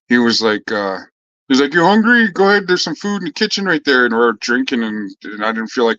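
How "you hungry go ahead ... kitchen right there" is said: offhand host. Retold or imitated. Guy offering food, retold.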